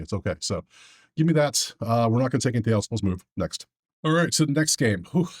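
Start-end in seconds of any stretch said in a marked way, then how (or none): 4.0-5.3 out of breath. Real, not acted. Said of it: "I'm still out of breath".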